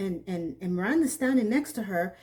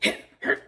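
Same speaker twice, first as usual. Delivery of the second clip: short, loud voiceless breaths in bursts; wordless breathy bursts of shock; sharp breath reaction; 4 dB louder than usual. Retold or imitated. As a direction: react with sudden puffs of breath. Wordless reaction to the retold scene.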